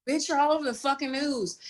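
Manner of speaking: imitating angry brother. To a sibling in the car, imitating his angry disbelief. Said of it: "he was so mad".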